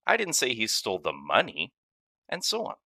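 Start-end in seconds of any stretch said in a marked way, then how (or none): 0.1-1.7 "money" given the weight, the rest even; stress on money. Shown as a demonstration. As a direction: lean on "money". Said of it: "based on which word carries the emphasis".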